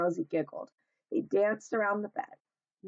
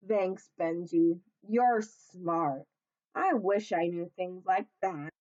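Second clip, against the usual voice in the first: grumbling; slower than usual. Acted. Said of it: "grumbled Humph".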